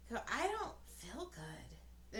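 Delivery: slow droopy sick voice; mock sick. Mom telling sons she feels sick, slow sickly. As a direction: let it sag, slow and ill.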